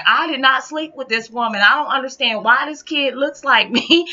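loud, high, frantic protest; going off. Retold or imitated. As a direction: protest loudly in disbelief. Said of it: "he was really going off".

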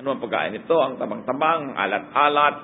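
sour muttered complaints at the plate; mock food complaint. Preacher acting a diner griping about food, sulky. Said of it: "yung pagkain, kaharap mo".

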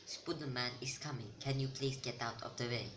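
lightly put-on Spooderman meme accent. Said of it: "This is the exact accent I used".

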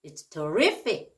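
terrific slowed, stressed on RIF; stress on second syllable. Shown as a demonstration. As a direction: say terrific slowly with the weight on the middle. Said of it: "강세를 앞에 뒤에 주에 따라".

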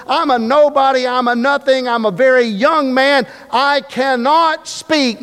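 mild hammed-up plea of Jeremiah; pleading Jeremiah. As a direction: voice a young prophet begging to be let off. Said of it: "Jeremiah said something like this".

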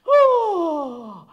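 sudden loud startled cry; jolted by a blow; surprised shout. Acted. Struck by a blow. (grido di sorpresa)

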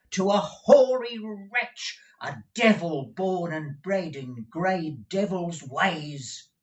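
very high, strained pleading voice; agitated old clerk. Acted. Newman's agitated voice.

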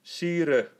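high, loud cry of gratitude; moved cry. A narrator's reading. Spieldorf cries out to the emperor, deeply moved. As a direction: cry out Sire, overcome. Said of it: "riep Spieldorf met vochtige ogen".

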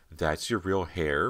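slow, drawn-out fake surprise; mock surprise. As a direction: pretend to be amazed, mocking. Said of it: "pretending to be surprised".

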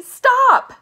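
high, loud command to halt; alarmed shout. A narrator's reading. Grandpa Joe tries to stop the elevator, alarmed shout. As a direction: yell it sharply at full force. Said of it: "shouted Grandpa Joe".

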